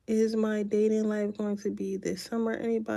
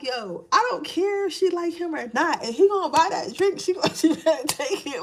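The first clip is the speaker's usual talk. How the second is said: higher, mock bossy auntie voice; lightly played blunt auntie; sassy ghetto auntie; 5 semitones higher than usual. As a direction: boss her around like a blunt auntie. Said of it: "she sound a little ghetto".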